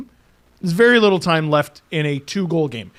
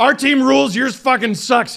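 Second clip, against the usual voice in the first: Boston fan; 7 semitones higher, 3 dB louder than usual. Pretend. Mock Boston fan bravado.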